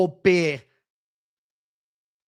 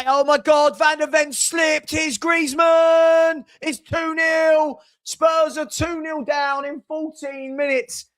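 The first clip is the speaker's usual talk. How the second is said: excited shout; 6 semitones higher than usual. Real, not acted. Watching a goal go in live.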